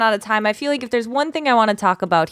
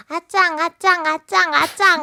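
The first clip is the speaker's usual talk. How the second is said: put-on toddler walk sound; 8 semitones higher than usual. Shown as a demonstration. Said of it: "I picture, like, a little kid".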